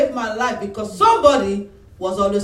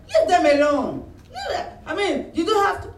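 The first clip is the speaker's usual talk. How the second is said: high, laughing plea; wife half-laughing protest; mock pleading through laughter; 11 semitones higher than usual. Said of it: "she will be angry".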